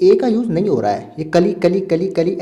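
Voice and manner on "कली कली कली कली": short "कली" with a reduced vowel, repeated; correct ending. Shown as a demonstration. Teacher drilling the ending students hear, sound demo. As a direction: chant the ending "कली" with no open A. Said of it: "ऐसा आपको sound आ रहा है".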